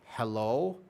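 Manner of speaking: lightly voiced questioning cat, rising; cat's hello. Lonely cat meowing outside the door, questioning hello. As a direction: imitate a cat hoping for attention. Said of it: "so he was like".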